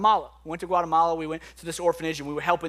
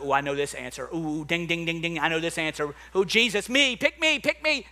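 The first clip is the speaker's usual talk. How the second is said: eager Peter. Retold or imitated. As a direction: pick me, like a kid desperate to answer. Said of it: "He's like".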